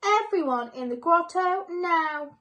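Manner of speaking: loud, high urgent summons to the elves; urgent call. A narrator's reading. Mister Claus summoning the elves to the grotto, urgent shout. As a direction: call everyone in at once. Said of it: "called Mister Claus".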